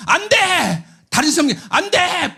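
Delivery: high commanding no; 단호한 금지. Retold or imitated. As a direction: forbid it firmly. 하나님의 금지 명령 흉내. (단호하게 금지하는 외침)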